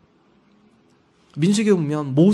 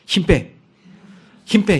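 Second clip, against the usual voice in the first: a firm teacher's voice, only a bit louder; teacher's firm correction; 6 dB louder, slower than usual. Retold or imitated. Teacher guiding the child's brush, firm. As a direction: say it like a calligraphy teacher gently insisting. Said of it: "저한테 한마디 하더라고요".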